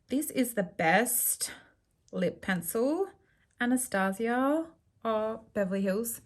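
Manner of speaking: talking while lining lips; while putting on lip liner. Real, not acted. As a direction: lips stretched, applying liner. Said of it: "I can't talk and do lip liner".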